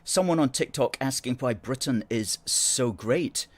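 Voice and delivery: ordinary delivery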